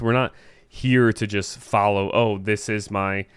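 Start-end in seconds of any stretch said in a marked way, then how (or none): 2.1-3.3 flat robotic monotone voice. Pretend. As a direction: speak like a robot. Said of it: "I'm trying to talk in a robotic voice".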